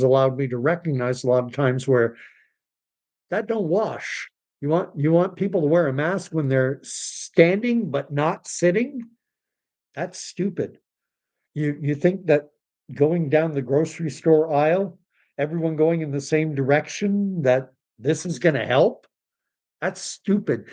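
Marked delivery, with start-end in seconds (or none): 3.3-10.8 pitched up and scornful; mocking disbelief at mask rules; exasperated rant. Real, not acted. Ranting about mask rules. 19.8-20.6 higher, scornful dismissal; exasperated disbelief. Real, not acted. Ranting about mask rules.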